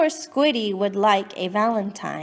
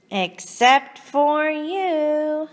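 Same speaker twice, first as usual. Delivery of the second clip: sweet slow ending; 4 semitones higher, slower than usual. Acted. Poem ending turns sweet.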